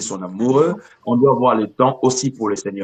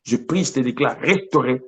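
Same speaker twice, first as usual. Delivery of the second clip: fervent declaring prayer voice. Acted. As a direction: pray with conviction over them. Pastor prays over listener.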